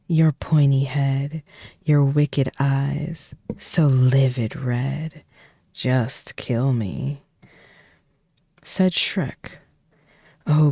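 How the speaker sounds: lively read-aloud, dropping to whispers at times; storybook reading. Acted. Streamer reading the Shrek book to chat, playful storytelling. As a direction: read the rhymes like a bedtime story.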